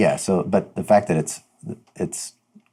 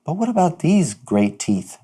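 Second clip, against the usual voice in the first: grand excited wizard voice; 4 semitones higher, 3 dB louder than usual. Acted. Player in character, excited.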